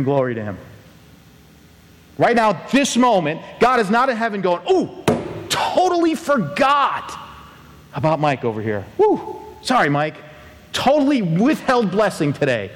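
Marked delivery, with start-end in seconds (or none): 4.7-12.7 high, hammed-up careless God voice; mock forgetful God. Preacher mocking a God who forgot Mike, high and hammed-up. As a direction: play God as a scatterbrain shrugging it off.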